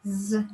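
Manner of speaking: voiced Z, a soft buzzing z; soft z sound. Shown as a demonstration. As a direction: say Z as a soft buzz. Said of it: "we pronounce it softer".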